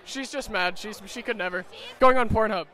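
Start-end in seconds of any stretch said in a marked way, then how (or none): none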